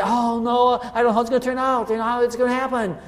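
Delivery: fast, worried rush of words; lightly voiced anxious believer; fretful believer. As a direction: gabble it like a mild mock panic. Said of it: "And we say".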